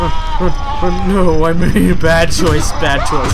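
being chased. Real, not acted. Monster chasing player, dying.

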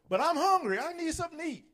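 put-on high pleading kid voice; child whining hungry. Child begging mom and dad for food, whiny.

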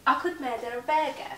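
"Akut med er bege" said as one linked chain; linking R. Shown as a demonstration. Showing learners how the phrase really sounds, slow. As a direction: sound the R of "murder" into "a".

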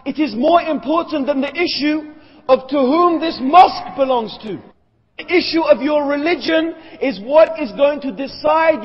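insistent, building religious exhortation; emphatic preaching. Real, not acted. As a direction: preach it as an urgent challenge. Preaches at raised force.

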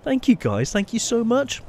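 high, emotional thanks, close to tears; choked up. Real, not acted. Streamer thanking viewers for gifted planes, choked up. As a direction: voice catching with gratitude. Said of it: "I'm choking up by this".

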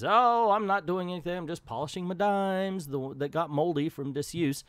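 a hint of cartoon uncle brushing off a question; Scrooge McDuck. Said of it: "he just says".

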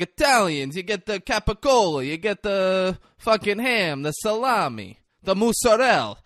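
lightly hammed-up Italian ad pitch; Jimmy Garoppolo. Host mimics quarterback's sandwich commercial, hammed-up Italian. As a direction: list the deli meats in mock Italian. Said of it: "over the top".

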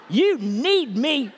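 loud, high and slow; drawn out with passion. Shown as a demonstration. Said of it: "Say it with some passion".

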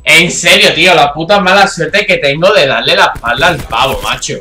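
loud exasperated rant; frustrated outburst. Real, not acted. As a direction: vent the bad luck loudly. Killed from behind, frustrated outburst.

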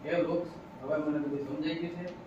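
remorseful promise. Acted. Man repents softly to the tree.

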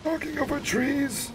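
very high, slow put-on wildlife narrator; documentary narrator voice. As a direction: play a hammed-up nature documentary narrator, high and drawn out. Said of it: "I don't like that for the documentary voice".

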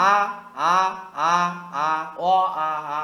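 "আ" said loosely, without the hard attack; unforced "আ" shown as the wrong way; soft hamza, not sharp. Shown as a demonstration. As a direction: let "আ" out softly and openly. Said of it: "এটা না".

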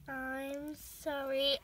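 slow, drawn-out sorry; drawn-out apology. Real, not acted. Owner apologising to her cat, slow drawn-out sorry. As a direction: stretch the apology out slowly.

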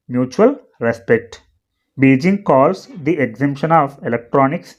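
slow, phrase-by-phrase English reading; teacher's read-aloud. Shown as a demonstration. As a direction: read it out slowly for learners, pausing between phrases. Reads article aloud for learners.

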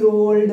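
ओल्ड stretched as if two beats, "o... ld"; split in two. Shown as a demonstration. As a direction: pull ओल्ड apart into two parts. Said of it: "दो बार में तो कह नहीं पाएंगे".

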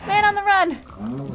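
high, slow sing-song man on the run with a rising end; drawn-out call. Real, not acted. Player chasing escaped cows, slow sing-song call. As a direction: stretch it out teasingly.

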